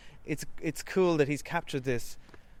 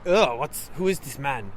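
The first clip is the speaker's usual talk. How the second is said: put-on French accent; 4 dB louder than usual. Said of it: "That's my French accent".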